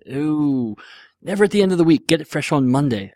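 lightly voiced cheese shop clerk; a hint of a comic shopkeeper; sketch shopkeeper. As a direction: politely turn the customer down, lightly in character.

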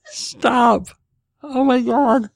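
high, laughing pleas to stop. Real, not acted. Host pleading with his giggling wife, high laughing stop. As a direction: beg her to stop through laughter.

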